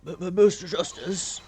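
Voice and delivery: high, stuttering nervous voice; panicked stammer. Acted. Panicked witness voiced in playthrough.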